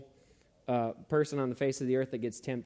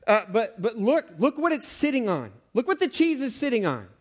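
higher, earnest urging; pleading mouse; 7 semitones higher, 3 dB louder than usual. Pretend. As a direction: coax a friend away from the cheese. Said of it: "And he might say".

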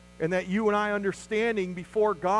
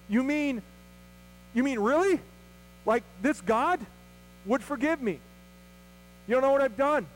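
incredulous wonder; 4 semitones higher than usual. Retold or imitated. Listener amazed at forgiveness.

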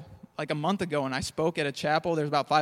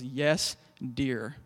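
meek husband; 5 semitones lower, 4 dB quieter than usual. Retold or imitated. Henpecked husband reply.

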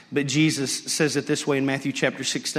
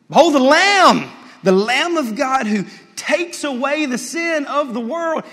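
ringing, much louder and higher call; John's loud proclamation; 10 semitones higher, 7 dB louder than usual. Retold or imitated. Preacher voicing John proclaiming to the crowd, loud and high. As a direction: cry it out to the crowd like the prophet. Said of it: "John screams this".

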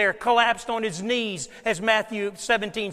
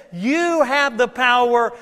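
emphatic; 2 semitones higher, 4 dB louder than usual. Retold or imitated. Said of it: "what he's saying to these disciples is this".

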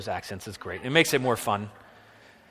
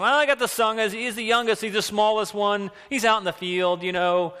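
put-on Yiddish accent; 8 semitones higher, 3 dB louder than usual. Jesse voiced again.

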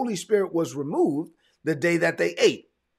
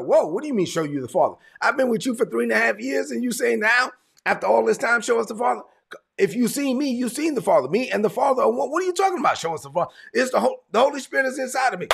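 higher-pitched, incredulous mock rebuke; bold; 6 semitones higher, faster than usual. Jesus answering disciples who ask to see the Father, boldly incredulous. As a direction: pitch climbing as the bold challenge builds. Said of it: "Jesus was so bold about this".

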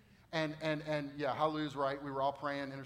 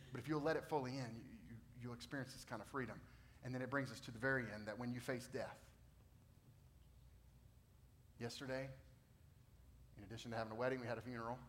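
much softer, lower, hushed pastoral voice; soft closing tone; 3 semitones lower, 7 dB quieter than usual. Acted. Pastor closing the sermon, hushed. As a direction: bring the room down gently.

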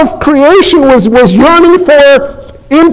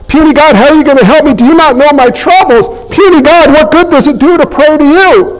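fast, building mock plea, getting higher; rising doubter's complaint; 3 semitones higher, faster than usual. Preacher voicing the flesh's doubt, building to a higher plea. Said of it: "Now that's what the flesh says".

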